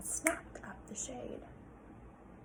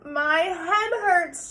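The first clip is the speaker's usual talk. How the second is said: mild moan; 7 semitones higher, 6 dB louder, much slower than usual. Acted. Sarah moaning to her father on the way in, slow. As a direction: whimper it out. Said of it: "she moaned".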